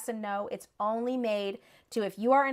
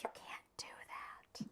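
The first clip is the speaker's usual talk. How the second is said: hushed unvoiced whisper; 23 dB quieter than usual. Whispering to her husband about hexing people. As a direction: whisper it like a secret warning.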